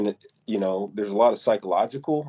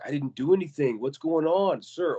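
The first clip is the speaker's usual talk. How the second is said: higher-pitched pleading victim, not shouted; imitating a man trying to stay calm; retold calm pleading; 6 semitones higher than usual. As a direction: retell his protest high but controlled. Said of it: "He's the only one who's calm".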